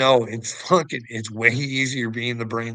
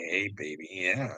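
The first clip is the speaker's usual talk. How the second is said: sweet reassurance; 6 semitones lower, 7 dB quieter than usual. Retold or imitated. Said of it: "you just say".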